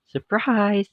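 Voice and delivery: a sudden high, loud "Surprise!"; surprise shout. A narrator's reading. Guests springing a surprise on Alice, shouting. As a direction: burst it out like springing a party.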